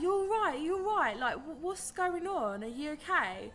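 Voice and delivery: a hint of worried local boys; high-pitched worried kids. Kids at car window, concerned.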